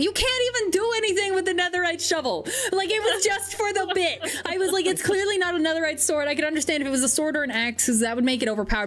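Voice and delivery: indignant rant. Real, not acted. Indignant rant about lost shovel.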